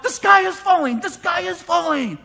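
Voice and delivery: hammed-up alarm that the sky falls; panicky doomsayer. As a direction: wail like Chicken Little. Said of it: "people running around like".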